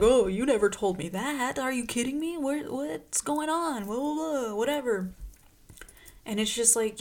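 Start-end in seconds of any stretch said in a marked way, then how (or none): 0.0-5.1 oblivious Po. Retold or imitated. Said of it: "he's like".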